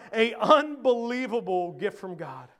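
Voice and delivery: firm stress on "unbelievable"; emphasis on "unbelievable". Shown as a demonstration. Preacher repeating point four, stressing "unbelievable". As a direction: hit "unbelievable" with weight. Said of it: "unbelievable emphasis, right?".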